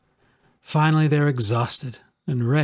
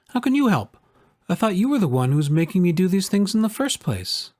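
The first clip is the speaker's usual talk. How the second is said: put-on much higher, puzzled child protesting; a boy doubting his anger creature, higher pitched; upset little boy; 5 semitones higher than usual. Narrator voices child On.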